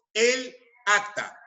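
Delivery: "el acta" con "el" nítido y luego "acta", sin choque de vocales; forma correcta, separada. Shown as a demonstration. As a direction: di "el acta" marcando cada palabra por separado. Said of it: "Se prefiere utilizar el artículo el". ("el acta" articulado limpio, sin alargar la a)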